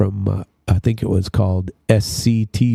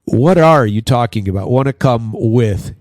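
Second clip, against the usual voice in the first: baffled reply; 4 dB louder than usual. Retold or imitated. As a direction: act confused at the phrase. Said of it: "And I'd say".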